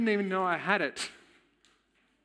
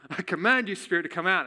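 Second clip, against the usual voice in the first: louder mock command to the spirit; imitating a commanding prayer; 3 semitones higher, 3 dB louder than usual. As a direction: retell the mentor ordering the spirit out. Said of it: "he starts commanding".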